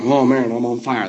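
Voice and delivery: a hint of a rock-and-roll singer impression. Co-host answering as the singer's statue, light impression of the singer. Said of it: "the co-host trying to do, like, a singer impression".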